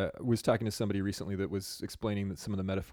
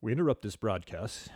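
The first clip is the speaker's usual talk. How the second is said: put-on old radio announcer. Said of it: "How does it go?".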